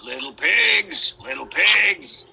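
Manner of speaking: slow, drawn-out call to the pigs; wolf's sing-song call. Acted. Wolf calling sweetly to the pigs inside. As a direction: croon it through the door like a hungry wolf. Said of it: "classic wolf call at the door".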